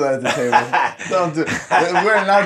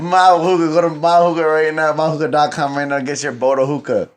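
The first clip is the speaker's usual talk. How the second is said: hype ad read; 4 semitones higher than usual. Acted. Hyping sponsor in ad read.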